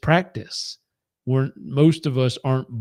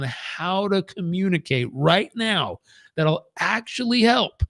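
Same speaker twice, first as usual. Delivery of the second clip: lecturing know-it-all; 4 semitones higher than usual. Retold or imitated. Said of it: "And I was like".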